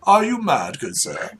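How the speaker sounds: high-pitched aristocratic outrage; affronted, pompous disbelief; incredulous noble. Acted. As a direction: challenge a stranger's sanity like a lord. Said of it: "It's like".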